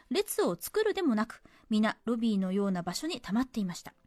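measured story-reading delivery; letter reading. Acted. Radio host reading a cinema memory to listeners, narrated. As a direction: read the letter out as a tidy narrative.

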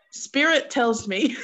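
slow mock mystical psychic. Shown as a demonstration. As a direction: intone it like a fortune teller with a laugh. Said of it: "let me say it like a real, uh, psychic person".

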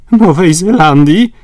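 high, loud shocked cry of Nowej Zelandii; exclaimed. A narrator's reading. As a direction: shout Nowej Zelandii in horror at the mistake. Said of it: "wykrzyknął Paganel".

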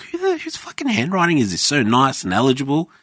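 high, mock-impressed voice; mock admiration. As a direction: marvel at the handwriting. Mocking old handwriting.

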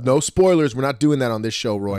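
scolding co-host. Real, not acted. Co-host stops spoilers.

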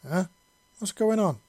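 lightly voiced drowsy girl; a hint of just woken up; sleepy voice. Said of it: "she asked in a sleepy voice".

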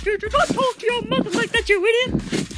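scolding mother. Pretend. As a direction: scold like an angry mom.

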